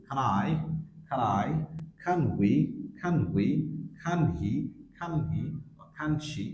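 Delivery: "can" reduced to /kən/, linked to the pronoun; weak form. Shown as a demonstration. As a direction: run "can" straight into the next word, vowel reduced. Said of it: "আমরা এভাবে বলতে পারি". ("can" উইক সাউন্ডে, পরের শব্দের সাথে জুড়ে)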